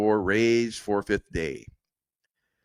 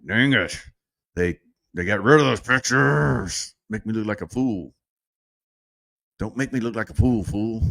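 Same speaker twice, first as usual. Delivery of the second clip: playfully aggrieved complaint; mock frustration. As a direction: gripe in mock annoyance. Mock frustration retold over missing pictures.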